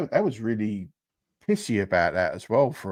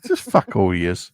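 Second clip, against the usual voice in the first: laughing; 2 semitones lower, 6 dB louder than usual. Real, not acted. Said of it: "I can't stop laughing".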